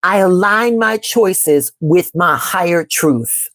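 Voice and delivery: slow, calm affirmation; measured mantra, unhurried. Shown as a demonstration. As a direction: lay each word down slowly and steadily. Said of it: "we're going to affirm".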